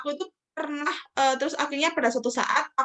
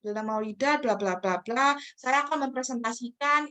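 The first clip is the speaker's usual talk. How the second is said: dull, routine classroom intro; monotone standard self-introduction; flat opening. Shown as a demonstration. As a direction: recite it without any energy. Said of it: "pembukaan nya sudah kayak flat".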